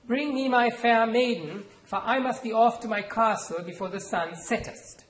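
hearty pirate voice. Acted. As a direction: play a swaggering rogue claiming his bride. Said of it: "dropping her hearty voice and accent".

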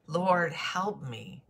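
high, slow, desperate plea for help; a man hanging from a cliff begs God for help; squealing plea. Acted. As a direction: beg for rescue, drawing it out. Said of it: "the man squealed".

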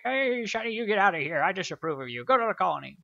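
high, loud mock scolding parent; disapproving parents. Gamer voicing the disapproving elderly parents, hammed-up scolding. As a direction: shoo him off like a fussy old parent.

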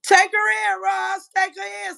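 loud, high call to take her in. Real, not acted. Calling out to Roz to take the rival in, loud holler.

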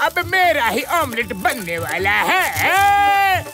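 crying out in panic, voice rising; panicked wail. Acted. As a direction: shriek in comic terror. Fears being made into omelette. (घबराकर रोती चीख़)

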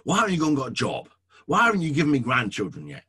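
a pastor mocking an unfair parent's yell. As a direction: scold the three-year-old in a hammed-up rant. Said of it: "yell at them".

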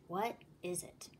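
whispered softly to himself. A narrator's reading. Shekel puzzling alone, hushed whisper. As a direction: breathe the question.

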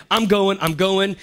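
loud, pumped, high repeat; psyched up. Retold or imitated. A dorm guy psyching himself up to run, pumped. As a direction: hype yourself up to go.

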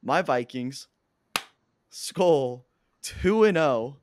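proud, rising team cheer; excited cheer. Real, not acted.

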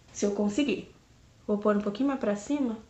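muffled lips under sheet; restricted mouth movement; talking through face mask. Real, not acted. Seen 1: Sheet mask covers lower face and lips; she adjusts it near mouth.

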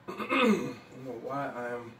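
slightly choked, crumbs in throat; choking up. Real, not acted. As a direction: talk past a tickle in the throat. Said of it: "choking up here".

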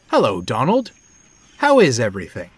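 lifted, cheery questions; warm greeting. A narrator's reading. Henry warmly asking Donald how everything is. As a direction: greet a friend with a lively, rising smile. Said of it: "smiled warmly".

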